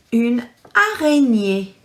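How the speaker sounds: araignée with the last E stressed, ay-ren-YAY. Shown as a demonstration. Teacher showing children the stress in araignée. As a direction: lean on the final E of araignée. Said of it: "a little stress on the E there".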